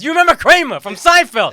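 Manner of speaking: lightly voiced Tracy. Imitating Tracy in clip.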